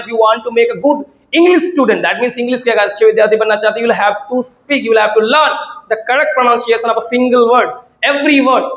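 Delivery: every word spaced out; slow, deliberate English. Shown as a demonstration. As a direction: spell it out for learners. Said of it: "teacher sets an English model".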